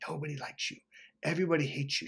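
hushed, soft retelling of a whisper; imitated whispering. Girlfriend to him as he sleeps, imitated whispering. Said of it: "She was whispering".

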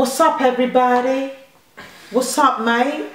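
lightly put-on American; American accent. Mum defending her accent to her son, shaky mock American. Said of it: "What American sounds like that?".

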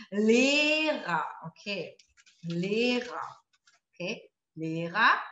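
Lehrer said as "Leh-ra", final er as an open a; German final er. Shown as a demonstration. Teacher modeling the er ending for students, "Lehra". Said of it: "Beispiele mit E R".

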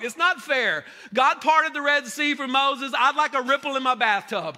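loud, high whining complaint; hammed-up grumble; mock complainer. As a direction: whine to God like a jealous kid. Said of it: "how many of y'all are like".

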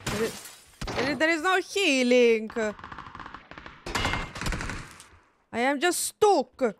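mock Italian accent. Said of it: "I can do the accent".

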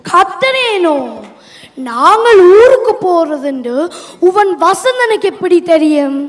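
loud, heated challenge; indignant shouting. Acted. Husband accusing his wife of leaking their trip, loud and indignant. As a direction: raise your voice and demand an answer. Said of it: "ஏனப்பா கத்துறிய?".

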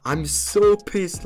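slow, frustrated whine at losing; pissed off. Real, not acted. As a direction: stretch it out in comic exasperation. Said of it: "you can tell that I'm pissed".

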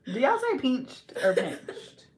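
slow, laughing contrast on "pinched"; contrasting pronunciations. Shown as a demonstration. Asking everyone which one they say, contrasting pronunciations. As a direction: say "pinched" two ways, stretching each. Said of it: "depends on your accent".

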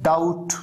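डाउट with no b before the t; silent B. Shown as a demonstration. Teacher showing silent letters, डाउट with the B dropped. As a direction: go straight from "ow" to t in डाउट. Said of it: "यहां पर बी silent है".

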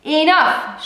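high, loud commanding bark; powerful shout. Acted. Sergeant halting the fight over the bucket, booming shout. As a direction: stop the whole cell with one word. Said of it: "shouted a powerful voice".

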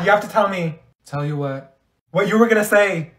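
normal talking voice

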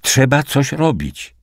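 high, slow, insistent plea; urgent cry. A narrator's reading. Liza demands that something be done, urgent cry. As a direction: press it urgently without a full shout. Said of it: "krzyknęła".

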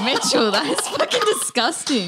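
protesting through real laughter; scandalised laughing. Real, not acted. Comic shocked by friend's dirty joke, scandalised laughing. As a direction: scold him while cracking up.

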